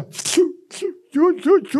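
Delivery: high, sharp sniffling tchu sounds; sniffling sobs done high; imitated sobbing sniffs. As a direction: mimic her crying sniffles. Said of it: "ela fez assim, ó".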